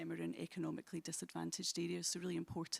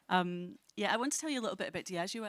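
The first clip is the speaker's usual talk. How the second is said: closer to the microphone, louder; leaning into the mic; 7 dB louder than usual. Real, not acted. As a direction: speak right into the mic. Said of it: "You might have to just lean into the microphone a bit".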